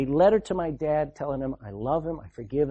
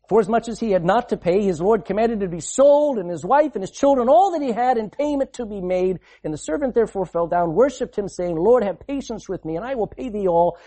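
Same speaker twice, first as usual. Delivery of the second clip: scripture reading; 2 semitones higher than usual. Acted.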